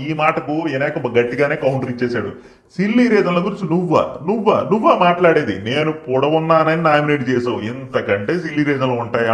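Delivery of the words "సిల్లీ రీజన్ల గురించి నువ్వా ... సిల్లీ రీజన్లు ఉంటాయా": retold firm retort. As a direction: imitate a firm, incredulous counter. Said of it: "అంటూ గట్టిగానే counter ఇచ్చాడు". (గట్టిగా ఎదురు ప్రశ్నిస్తున్నట్టు అనుకరణ)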